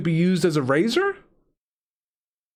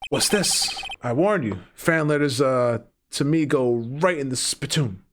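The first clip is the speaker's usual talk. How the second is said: lightly voiced gruff Western lawman, sinking lower; Clint Eastwood; 4 semitones lower than usual. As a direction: warn them like a cowboy, lower toward the end. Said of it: "Gotta give him that Clint Eastwood accent".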